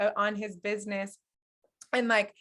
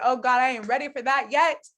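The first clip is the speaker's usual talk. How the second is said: laughing reluctance; 3 semitones higher, 4 dB louder than usual. Retold or imitated. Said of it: "'Cause I was laughing like".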